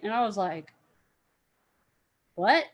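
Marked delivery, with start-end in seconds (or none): 2.4-2.7 louder startled question; shocked what. Retold or imitated. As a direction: caught off guard by a rude demand. Shocked by the demand.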